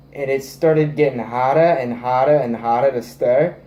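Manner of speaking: put-on playful Italian accent; mock Italian accent. Telling viewers how stirring got harder, in a mock Italian accent. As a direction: slip into a joking Italian accent. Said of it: "talking in an Italian accent".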